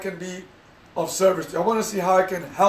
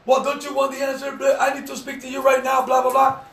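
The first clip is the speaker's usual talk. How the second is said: higher, pressing mock demand, wrong way; higher-pitched mock impatient push; pushy demand; 4 semitones higher than usual. Shown as a demonstration. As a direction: demand an answer right now, impatient. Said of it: "that's not what you do".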